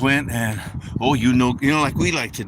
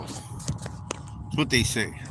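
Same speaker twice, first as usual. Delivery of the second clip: whisper; 2 semitones lower, 8 dB quieter, much slower than usual. Acted. Aside on church teaching.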